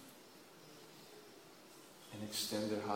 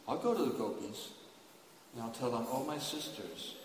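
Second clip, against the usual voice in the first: gentle sisterly advice; 5 dB quieter than usual. Acted. Subhadra speaks to the gopis.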